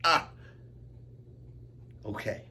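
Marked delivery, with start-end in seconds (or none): 0.0-0.3 hard forceful exhale; blowing out hard. Shown as a demonstration. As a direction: blow the air out hard. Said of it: "blow it out as hard as you can".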